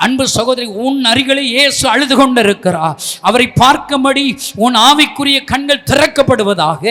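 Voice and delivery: loud, punched preacher's cry rising to a peak; fervent preaching. Acted. Preacher leading TV congregation in prayer, loud and fervent. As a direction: preach at full force, hammering each phrase.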